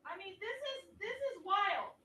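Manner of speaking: distant voice from the next room; calling out from another room. Real, not acted. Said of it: "screaming from the other room".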